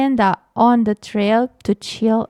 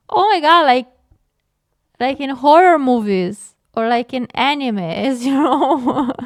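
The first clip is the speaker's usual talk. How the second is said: laughing. Real, not acted. Laughs mid-reading.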